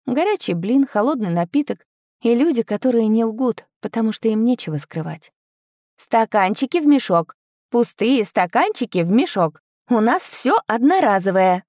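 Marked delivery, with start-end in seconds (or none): 6.0-11.6 strict vendor giving orders to soldiers; stern voice. Acted. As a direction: lay down the rules sternly. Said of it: "произнесла я строгим голосом".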